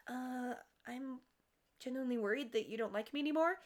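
softly voiced worry; genuinely worried. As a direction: imitate an insecure friend's concern. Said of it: "she seems genuinely concerned".

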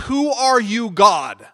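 high, loud startled cry; Paul's cry. Retold or imitated. Paul crying out to the voice on the road, high and loud. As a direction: cry out in shock at the voice. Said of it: "And he says".

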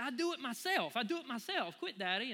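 lightly voiced insistent little girl; stubborn toddler. Daughter refusing dad's help, mild stubborn child voice. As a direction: insist like a headstrong three-year-old. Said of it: "She said".

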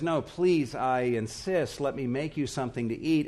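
mildly pleading host, leaning on "please"; insistent offer. Acted. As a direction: press the guest to accept. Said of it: "they won't hardly take no for an answer".

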